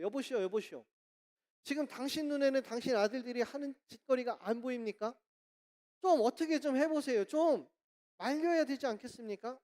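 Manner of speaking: mildly angry complaint to a stranger; retold indignant scolding; annoyed passenger. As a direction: confront a negligent father, pitch lifting as you go. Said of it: "사람들이 막 화가 났잖아요".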